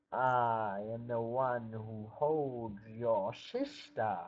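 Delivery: slow, looming ogre voice. Acted. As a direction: drag each word out like a lumbering ogre. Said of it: "The ogre said".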